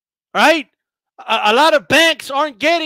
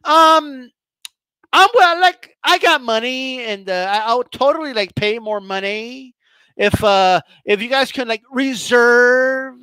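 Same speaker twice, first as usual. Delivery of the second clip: 1 entitled shopper; slower than usual. Retold or imitated. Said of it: "and they'll be like".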